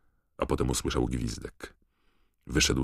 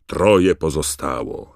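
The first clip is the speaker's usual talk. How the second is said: loud announcer's roar, pitched up and slowing; big raised voice, stretched at the end; Bagman roaring; 4 semitones higher, 10 dB louder than usual. A narrator's reading. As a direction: boom out the tally to the stands. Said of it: "ryknął Bagman".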